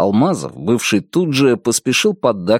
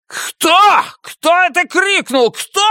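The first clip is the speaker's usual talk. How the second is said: roaring major; slower than usual. A narrator's reading. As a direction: bellow at the crowd. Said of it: "заревел майор".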